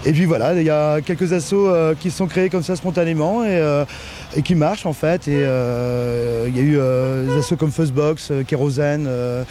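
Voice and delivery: muffled archive recording. Real, not acted. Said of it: "avec cette archive sonore".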